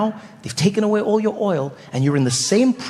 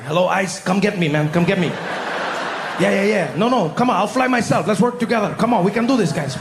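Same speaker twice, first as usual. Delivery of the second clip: eager Maduro. Retold or imitated. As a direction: beg them to take you. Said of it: "He's like".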